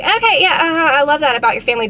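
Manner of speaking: high, loud, hurried agreement; mock polite interest. Client humoring chatty facialist while distracted, mock polite interest. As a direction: rush through fake-interested small talk.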